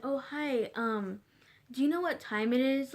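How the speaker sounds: softly put-on sweet girl voice; fake shy voice. Shown as a demonstration. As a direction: lightly feign a shy, polite greeting. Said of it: "that's the kind of voice that I speak in".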